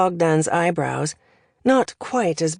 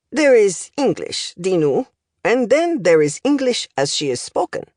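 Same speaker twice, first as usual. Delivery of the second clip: lightly voiced accented professor, lively lilt; language professor; 3 semitones higher than usual. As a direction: deliver it like a pedantic foreign tutor.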